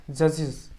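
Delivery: "जजेस" said juj-iz; IZ ending. Shown as a demonstration. Teacher repeating the example, "जजेस" with an iz ending. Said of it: "उससे sound निकलेगी इज की".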